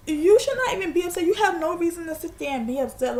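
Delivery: retold indignant scolding. Woman arguing with him at the bus stop, indignant scolding. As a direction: re-enact an argument, pitch jumping up at the start.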